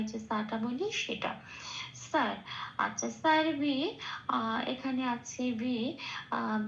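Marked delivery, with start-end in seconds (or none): 1.9-2.4 "স্যার" with the s of sa-re-ga-ma; Sanskrit dental s. Shown as a demonstration. Teacher shows dental s, "স্যার" begun like the musical note sa. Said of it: "দন্তের স এর উচ্চারণ সংস্কৃততে". 3.1-4.0 "স্যার বি" with dental s and joined r; Sanskrit dental s. Shown as a demonstration. Teacher builds the word, "স্যার বি" with dental s. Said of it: "দন্তের স এর উচ্চারণ সংস্কৃততে".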